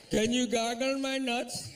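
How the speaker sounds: slow, high, loud mock Indian accent; drawn-out Indian-accented request ending in a gargle; East Indian accent. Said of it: "is that East Indian accent".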